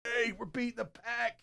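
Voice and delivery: imitating a fired-up defense, pitched high. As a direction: hype up the team as an amped defender. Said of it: "extra fired up to be like".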